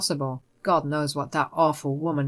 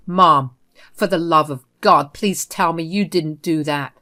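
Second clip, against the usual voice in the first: held-back anger, louder on "Mom"; suppressed rage; 2 semitones lower, 5 dB louder than usual. Acted. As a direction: rage kept barely under control. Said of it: "Drago said with suppressed rage".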